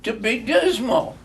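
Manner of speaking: high and loud, playful; gaily. A narrator's reading. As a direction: mirror the uncle's words back with cheer. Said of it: "returned the nephew gaily".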